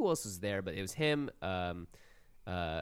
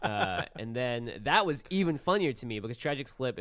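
laughing; 3 semitones higher, 4 dB louder than usual. Real, not acted. Laughing while retelling funny moment.

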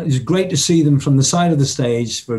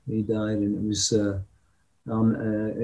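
emotional; 4 semitones lower, 9 dB quieter than usual. Real, not acted. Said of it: "I get quite emotional".

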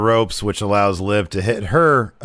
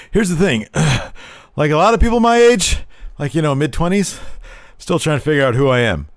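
mocking Liv; 6 semitones higher than usual. Imitating Liv's backstage promo, mock-earnest. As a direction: parody a rambling sincere promo.

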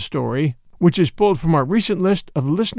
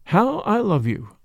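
slow tender murmur; 2 semitones higher than usual. Acted. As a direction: linger on it, barely above a breath. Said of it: "murmured in his ear".

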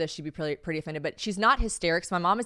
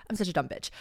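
muttered self-insult, softer; quiet self-mockery; 5 dB quieter, faster than usual. Real, not acted. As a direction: drop it under your breath. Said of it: "I'm reminded that I am just".

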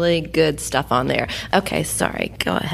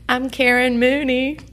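sultry perfume ad; 6 semitones higher than usual. Real, not acted. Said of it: "apparently sultry is on brand".

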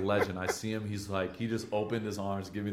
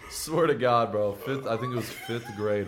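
excited loud insisting; 3 semitones higher, 6 dB louder than usual. Real, not acted.

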